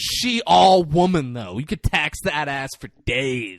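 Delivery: slow, drawn-out leer; lightly hammed-up boast; imitating a brazen suspect. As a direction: savour each word as crude bragging. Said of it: "And this guy said".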